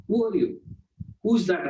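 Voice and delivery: high, put-on voice of a cross doorkeeper; scolding doorkeeper. Doorkeeper scolding the visitor at the door in a high voice.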